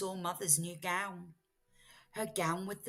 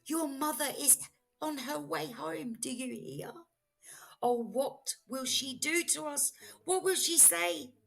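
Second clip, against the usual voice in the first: high, anxious fish voice; high worried fish warning; fearful fish; 6 semitones higher than usual. Acted. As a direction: plead in a panic, voice raised. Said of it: "shook with fear".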